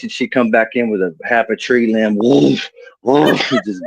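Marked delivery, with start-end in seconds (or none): 2.2-3.4 whooshing imitation of a swung branch; mouthed swish, twice; swishing switch noise. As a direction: make the whoosh of a big switch. Imitating tree limb swung.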